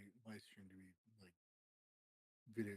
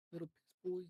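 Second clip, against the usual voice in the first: much higher, louder taunting squeak; shrill mocking squeal; 10 semitones higher, 6 dB louder than usual. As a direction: screech it like a teasing kid. Escalated teasing, louder.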